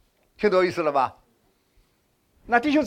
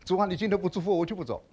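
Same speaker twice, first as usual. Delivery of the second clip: softer, pleading 主啊 prayer demo; soft stubborn prayer; 6 dB quieter than usual. Shown as a demonstration. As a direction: murmur the bold prayer quietly. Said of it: "有几个弟兄姊妹祷告是这样的".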